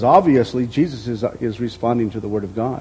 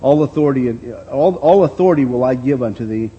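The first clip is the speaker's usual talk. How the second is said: devil's offer; 4 dB louder than usual. Acted. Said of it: "The devil said unto him".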